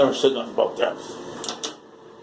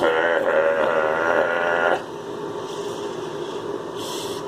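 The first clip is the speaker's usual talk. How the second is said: long low laugh; 7 semitones lower than usual. Real, not acted.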